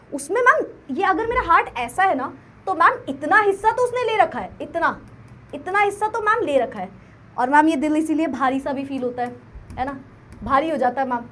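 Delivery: soft, dreamy student pleading to ma'am; hushed, moony confession of a crush; lightly acted student with a crush; mock lovesick student. Teacher voices a lovesick student.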